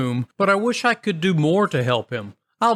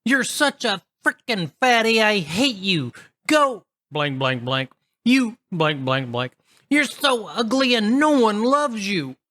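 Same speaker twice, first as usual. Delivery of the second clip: high, bratty tantrum voice; screaming sister; 6 semitones higher than usual. Retold or imitated. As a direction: shriek insults like a spoiled teen in a fit.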